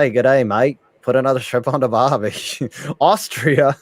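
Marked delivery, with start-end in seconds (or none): 0.0-2.3 put-on Australian accent. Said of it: "I will never do that Australian accent again".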